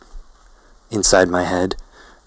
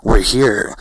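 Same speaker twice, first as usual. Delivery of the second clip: higher, louder exclamation; narrated scream; 4 semitones higher, 6 dB louder than usual. A narrator's reading. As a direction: call it out, short of screaming. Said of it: "Felix screams".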